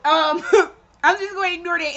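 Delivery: fast, laughing through it; brushing it off with laughter. Real, not acted. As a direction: giggle and rush on. Laughing it off, moving on.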